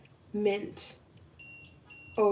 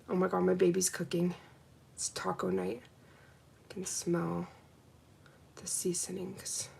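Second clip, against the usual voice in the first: much softer, fading to a whisper; quiet aside; 3 semitones lower, 11 dB quieter than usual. Real, not acted. Smelling taco night in the kitchen, a soft fading aside. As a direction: murmur it off to the side. Aside about partner cooking.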